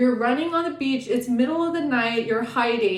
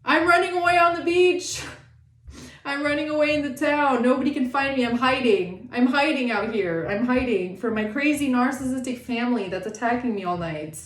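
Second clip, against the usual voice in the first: a touch of a hurt runaway pleading to be left alone; fleeing victim's plea; 2 semitones higher than usual. Retold or imitated. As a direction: lightly voice the runaway hiding from family. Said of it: "You're like".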